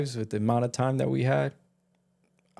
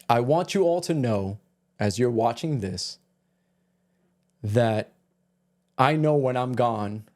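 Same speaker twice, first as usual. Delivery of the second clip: slow poem recital. Acted.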